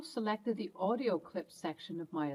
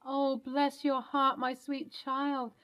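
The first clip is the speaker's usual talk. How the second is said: tender grandmother; 5 semitones higher, slower than usual. Acted. Grandmother touched by the child.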